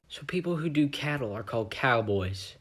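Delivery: hushed, soft whisper. Real, not acted. Marvin sharing a thought, hushed whisper. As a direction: breathe it out as a secret.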